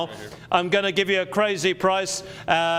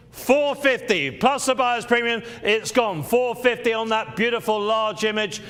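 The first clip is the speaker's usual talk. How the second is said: excited price drop; 3 semitones higher than usual. Acted.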